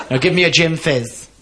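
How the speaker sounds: mock-cross, firmer demand; proper cross. Camp customer demanding his drink from barman, mildly cross. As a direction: insist with a touch of camp temper. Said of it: "I'm getting proper cross".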